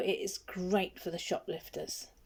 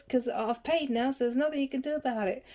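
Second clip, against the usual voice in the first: retold shout back; 5 semitones higher than usual. Young lad shouting back at the supervisor, mock yelling. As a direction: throw it back at her, cocky. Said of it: "he shouted back at the supervisor".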